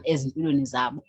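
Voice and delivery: ordinary talk, nothing marked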